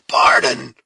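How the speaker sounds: loud, scornful bark of the word; fierce echo. A narrator's reading. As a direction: throw her word back at her in anger. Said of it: "echoed the fierce Huron".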